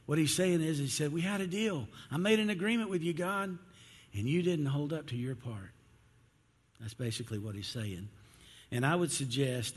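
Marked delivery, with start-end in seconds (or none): 1.1-5.7 high, aggrieved appeal; protesting. Acted. Rich young ruler to God, aggrieved and high-pitched protest. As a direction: argue the broken bargain, pitched up.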